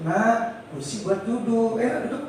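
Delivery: put-on teacher calmly telling a child to sit; gentle correction. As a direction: guide the child down kindly. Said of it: "terus lembut".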